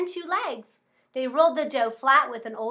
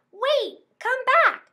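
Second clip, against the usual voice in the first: high, loud call after him; 10 semitones higher, 4 dB louder, slower than usual. Acted. Old couple chasing the runaway cookie, calling out high.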